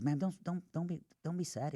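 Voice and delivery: high, soft imitation of gentle consoling; soft, high pleading reassurance, retold; retold comforting. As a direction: console her softly, voice pitched well up. Man comforting crying waitress in story.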